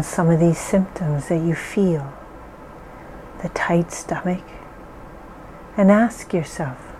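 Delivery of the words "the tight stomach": "tight stomach" whispered, no voice; whispering. Acted. Naming a symptom softly.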